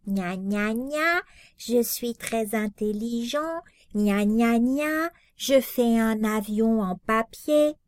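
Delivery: gna gna moqueur, voix niaise; se moquer de Boris. Retold or imitated. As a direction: singe Boris pour le railler. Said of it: "je me suis fait un masque de Boris". (imitation moqueuse de Boris)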